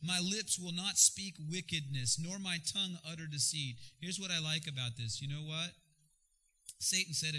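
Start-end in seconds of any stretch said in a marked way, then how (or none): 0.0-3.8 measured Bible reading; scripture reading. Acted. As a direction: read the verses with weight. Reads scripture aloud.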